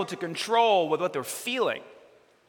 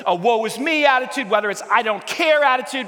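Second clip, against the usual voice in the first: preaching shout; 4 semitones higher, 4 dB louder than usual. Acted. Preaching climax.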